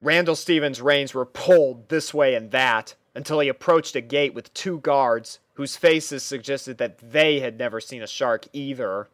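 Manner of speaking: ordinary delivery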